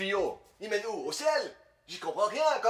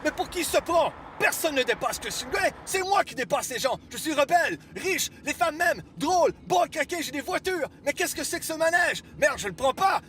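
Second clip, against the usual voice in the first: indignant rant; 5 semitones higher than usual. Acted. Outraged at being passed.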